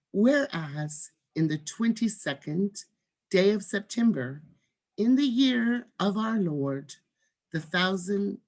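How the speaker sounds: measured proclamation with lifted key words; deliberate, emphatic script reading; formal demonstration reading. Shown as a demonstration. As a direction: read it out professionally, pausing between phrases. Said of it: "go ahead and read this first line".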